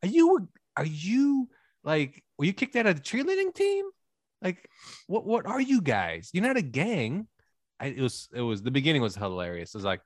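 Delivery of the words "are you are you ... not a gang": mock bewildered bystander. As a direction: play a baffled passerby mocking the dancers. Mocking confused onlookers, acted quote.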